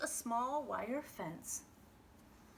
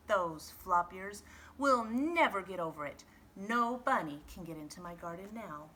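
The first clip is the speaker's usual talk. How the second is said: mild huff; 3 dB louder than usual. Acted. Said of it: "he huffed".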